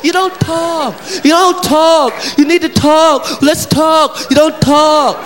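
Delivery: a wife nagging her man to talk; nagging woman. Retold or imitated. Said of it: "women's biggest complaint".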